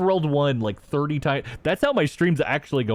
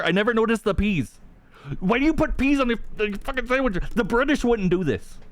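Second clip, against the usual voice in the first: higher, incredulous outrage at the peas; exasperated rant; 4 semitones higher than usual. Real, not acted. Streamer ranting to Orphea about peas on a sandwich, exasperated. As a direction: rant like the food personally offended you.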